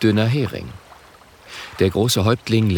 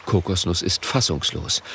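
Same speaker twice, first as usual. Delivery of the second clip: plain reading voice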